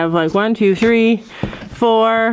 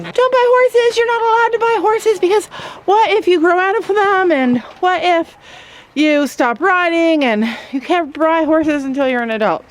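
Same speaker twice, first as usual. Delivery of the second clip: mocking worried viewers; 8 semitones higher than usual. Mimicking worried commenters against buying horses, high and whiny. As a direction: parrot the naysayers in a high whine. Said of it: "people were so worried".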